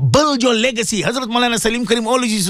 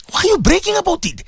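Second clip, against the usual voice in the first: raised, high challenge; high rebuke; 9 semitones higher than usual. Real, not acted. Preacher rebuking listeners who brag about giving, high challenge. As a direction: call the braggart out.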